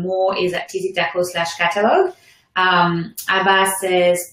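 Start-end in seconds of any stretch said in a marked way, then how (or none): 3.3-3.7 name said with a French accent. Real, not acted. Host misreads a viewer's name from the chat, French accent. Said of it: "My French accent came out".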